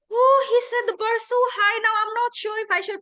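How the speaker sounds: high, mock-worried voice; imitating intimidated participant. Coach voicing the other participants, mock-intimidated. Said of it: "other participant must be like".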